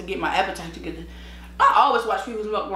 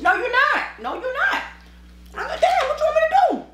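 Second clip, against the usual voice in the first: exasperated high rant. Retold or imitated. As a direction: rant in disbelief.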